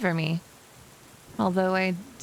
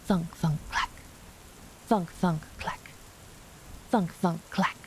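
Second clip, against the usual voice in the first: imitated thudding footsteps; 5 dB quieter than usual. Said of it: "she could hear rattling in the hallway, like a lumbering beast".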